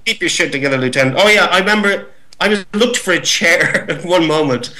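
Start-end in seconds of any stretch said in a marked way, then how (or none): 0.0-1.1 Captain Dye. Shown as a demonstration. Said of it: "give us one big line of Captain Dye's in your Captain Dye impersonation".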